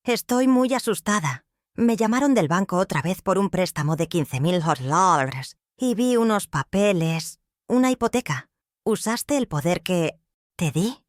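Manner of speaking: madre asustada, más aguda y temblorosa; voz temblando. Acted. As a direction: finge miedo y confusión de anciana. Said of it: "mi voz temblando convincentemente". (madre que finge miedo ante su hijo, temblando)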